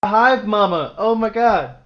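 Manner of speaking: high, loud delighted shriek; excited shriek. Real, not acted. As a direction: squeal with delight. Cracking up at friend's joke.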